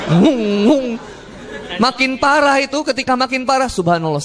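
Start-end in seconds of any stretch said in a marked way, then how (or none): 0.1-0.9 short swooping "ngung" noises; imitated plane lurch. Preacher shows the plane tipping, imitated engine swoops. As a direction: mimic the plane pitching up and down. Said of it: "Ketika pesawat itu nge".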